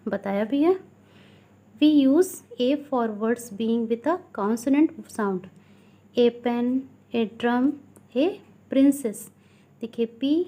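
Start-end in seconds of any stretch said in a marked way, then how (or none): 1.8-9.2 slow, deliberate classroom reading; teacher slowly dictating from a textbook; textbook read-aloud. Acted. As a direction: read it out word by word for pupils. Reads textbook rule aloud.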